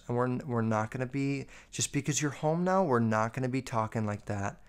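mock her mom's hushed serious scolding. Imitating a mom scolding her grown daughter, quietly stern. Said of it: "like, very serious".

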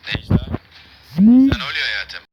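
loud call across the room, pitch up. Acted. Hakkı shouting to Necla, loud worried call. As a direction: shout her name to find out what's wrong.

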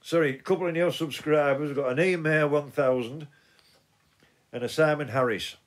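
talking with loose false teeth; words slurred round slipping dentures. Real, not acted. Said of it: "put my teeth back in".

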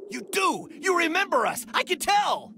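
put-on joyful shout to an old comrade; excited. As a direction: burst out, sure he remembers. Friend realises he remembers.

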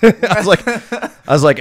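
can't get the words out for laughing. Real, not acted. Laughing at own story.

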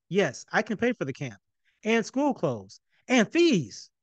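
rising eager blurt ending high on fees. Acted. Son blurts eager promises to parents. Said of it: "He blurted out fees".

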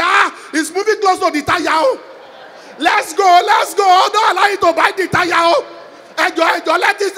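loud, frantic pleading to drive away; scared tourist yelling at the lion; panicked shouting. Acted. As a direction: beg the driver loudly to get going. Yoruba man panics near lion.

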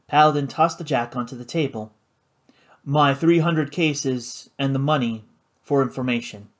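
whisper. Acted. Whispered narration and gambler's offer.

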